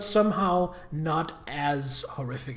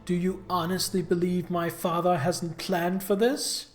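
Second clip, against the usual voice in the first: cartoon villain. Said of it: "You talk like a cartoon villain".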